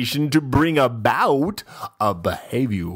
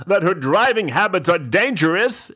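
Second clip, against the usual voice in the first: mock fretting mom, higher and louder; grousing mom; 11 semitones higher, 4 dB louder than usual. Reading the book's mom quote, mock grousing higher. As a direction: whine it like a worried mother. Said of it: "A mom grouses".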